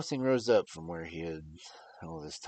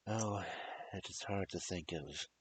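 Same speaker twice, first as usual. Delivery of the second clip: broken voice; 2 semitones higher than usual. Acted. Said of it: "said in a broken voice".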